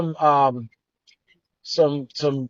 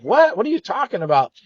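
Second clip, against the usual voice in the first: surprised; 4 semitones higher than usual. Retold or imitated. Stunned by friend's offer.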